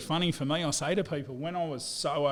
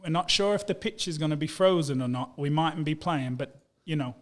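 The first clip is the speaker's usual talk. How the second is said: Yorkshire coach; 2 semitones higher, 8 dB louder than usual. Retold or imitated. Yorkshire coach phoning his player on Christmas Day, in a broad Yorkshire accent. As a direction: imitate a gruff Yorkshire rugby coach calling up a lad. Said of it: "really good Yorkshire accent".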